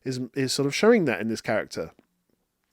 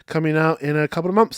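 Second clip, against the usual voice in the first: louder, eager fan rush; giddy fan voice, a bit louder; excited; 2 semitones higher, 4 dB louder than usual. Retold or imitated. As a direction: burst with cinema excitement. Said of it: "and I was like".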